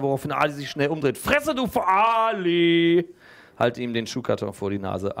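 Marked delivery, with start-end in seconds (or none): 1.2-3.1 put-on high, loud annoyed kid snapping; angry pupil snap. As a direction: bite back at a classmate.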